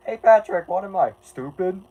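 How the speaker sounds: hammed-up SpongeBob-style quote; cartoon character voice. Quoting a SpongeBob line.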